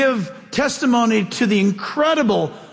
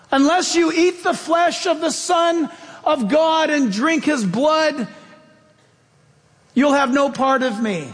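solemn Jesus quote; 5 semitones higher than usual. Retold or imitated. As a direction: pronounce it like a grave command.

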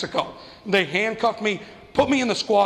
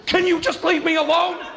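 bratty whine; 9 semitones higher than usual. Retold or imitated. Kid yelling at mom.

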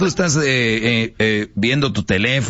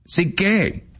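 put-on pushy girlfriend; 8 semitones higher than usual. Acted woman presses her man.

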